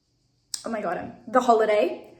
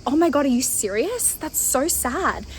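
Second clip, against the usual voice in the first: higher-pitched mock pity; pitying drunk; 4 semitones higher than usual. Drunk man pitying a woman traveling alone, mock pitying voice. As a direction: imitate his drunk dismay, stretching the ending. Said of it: "he was fucked up".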